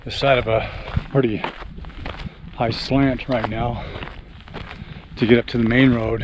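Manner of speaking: slightly winded while climbing uphill; out of breath. Real, not acted. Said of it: "if I sound like I'm a little out of breath".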